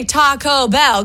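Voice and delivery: "Ta-co Bell" with each syllable hit; every syllable stressed. Retold or imitated. Co-host shows what you can't say, syllable by syllable. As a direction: spell out "Taco Bell" in equal beats. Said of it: "'cause that's every syllable".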